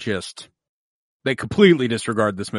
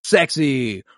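amazed, building to a shout; awestruck kid; 3 semitones higher, 3 dB louder, much slower than usual. Retold or imitated. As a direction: gasp in childlike awe. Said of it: "I was like".

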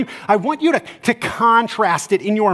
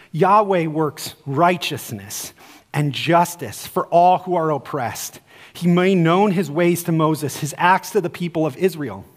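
scripture reading; 2 semitones lower than usual. Acted. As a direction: read the verse with weight. Reads scripture verse aloud.

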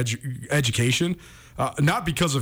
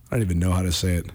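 whispering; 7 semitones lower, much faster than usual. Real, not acted. Unsure aside while choosing words.

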